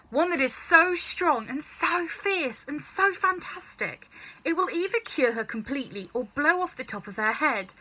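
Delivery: lightly voiced George, delighted with his scheme; excited boy plotting.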